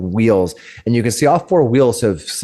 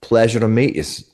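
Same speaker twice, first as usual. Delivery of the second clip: flustered lady. Acted. Woman NPC introduces herself.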